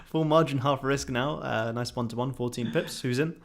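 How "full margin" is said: laughing through the words. Real, not acted. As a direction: giggle while agreeing. Laughing while agreeing to trade.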